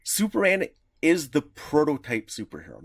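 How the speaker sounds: usual speaking voice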